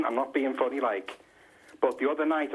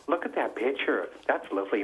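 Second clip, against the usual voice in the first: soft-porn movie talk; 2 semitones lower than usual. Retold or imitated. Caller mocking the couple's talk, mock soft-porn voice. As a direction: lightly imitate a sultry film couple. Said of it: "like they're in a soft porn movie".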